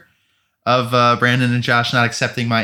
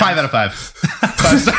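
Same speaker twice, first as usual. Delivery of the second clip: laughing sarcasm; 4 semitones higher, slower than usual. Acted. Sarcastic praise of a hated movie.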